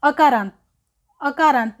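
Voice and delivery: अकारांत called out loud and firm; teacher calling out अकारांत; emphatic answer. Shown as a demonstration. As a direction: announce अकारांत clearly to the class. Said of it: "कौन से प्रकार के शब्दों का".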